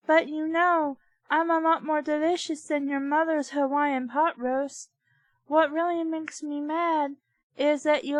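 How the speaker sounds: a meatball with hurt pride; offended meatball. Acted.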